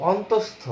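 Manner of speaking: অন্তস্থ as "ontostho", every syllable sounded; deliberate, emphatic অন্তস্থ; full letter-name pronunciation. Shown as a demonstration. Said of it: "এরকম কোনো উচ্চারণ আমাদের কিন্তু নেই".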